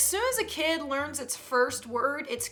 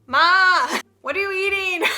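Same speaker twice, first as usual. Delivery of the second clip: lightly voiced pestering kid, getting louder; nagging child; 5 dB louder, slower than usual. Kid calling Mom repeatedly for attention, nagging. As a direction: keep calling for Mom, more insistent each time.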